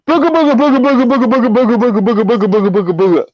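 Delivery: mock monster noises starting high and dropping; wild booga-booga yelp, high then falling. Drunk friend scaring the cop with monster noises, high and falling.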